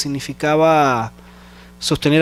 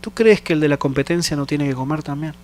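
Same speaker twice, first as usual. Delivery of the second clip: voz de Dios; 2 semitones lower, 3 dB quieter than usual. Retold or imitated. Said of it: "Dios me decía".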